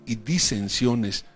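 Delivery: preacher reading Corinthians with full force; preaching scripture. Acted. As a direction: thunder the apostle's words at the flock. Loud slow Corinthians reading.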